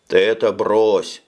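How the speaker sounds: слурred lisping warning; slushy lisp. Acted. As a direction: mumble it with a lisp. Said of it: "невнятно и шепеляво сказал Рыба". (невнятно и шепеляво)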